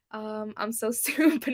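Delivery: self-mocking laugh through the words; embarrassed laugh at a mispronunciation; laughing at herself. Real, not acted. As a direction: laugh it off at yourself.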